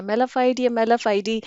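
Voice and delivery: "मेलाफाइड" said me-la-FIDE, then "मेलाफाइडी" with an added "-dee"; two ways to say mala fide. Shown as a demonstration. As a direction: contrast "मेलाफाइड" and "मेलाफाइडी", the second ending in "ee". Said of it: "मेलाफाइड की भी दो तीन है". (पहले "मेलाफाइड", फिर अंत में "डी" जोड़कर "मेलाफाइडी")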